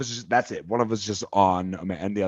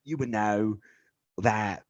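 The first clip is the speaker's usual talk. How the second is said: put-on British accent. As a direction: list the British stars with pride in a British accent. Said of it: "You sound like a dirty redcoat".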